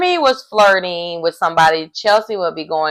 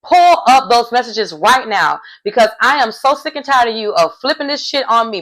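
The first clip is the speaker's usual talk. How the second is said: mock furious; 3 semitones higher than usual. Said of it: "Laura went off".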